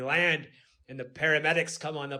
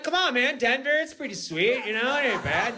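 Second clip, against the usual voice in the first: pleading; 7 semitones higher than usual. Retold or imitated. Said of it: "I'm like".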